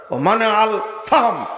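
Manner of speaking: ordinary delivery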